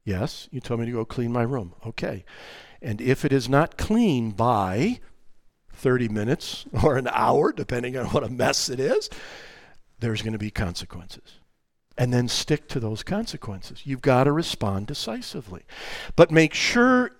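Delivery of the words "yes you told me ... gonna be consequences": quiet calm warning. Shown as a demonstration. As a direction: state the consequence evenly. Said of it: "respond in the Spirit".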